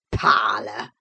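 put-on deep Yorkshire old servant sneering the word back; low, broad old man mocking the word; sneering echo. Old servant mocking the visitor's fancy word, sneering. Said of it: "he echoed sneeringly".

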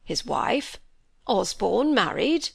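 slow stunned question; anxious disbelief. A narrator's reading. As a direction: ask in shocked anxiety. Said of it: "searching anxiety as he repeated".

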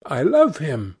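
protest, then confess the love; a hint of a smitten actress; Sibyl defending her love.

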